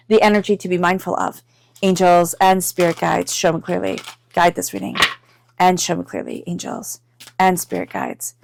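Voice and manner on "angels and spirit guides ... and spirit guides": spoken invocation. Real, not acted. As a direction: call on the guides in even, repeated phrases. Invokes guides while shuffling cards.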